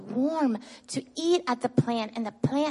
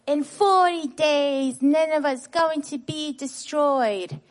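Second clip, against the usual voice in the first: mild mock shout; 3 semitones higher, 4 dB louder than usual. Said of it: "he was shouting in the streets".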